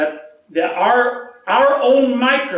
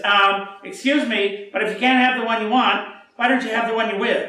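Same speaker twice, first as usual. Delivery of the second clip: Zerbinetta quip; 2 semitones higher, faster than usual. Retold or imitated. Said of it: "she says".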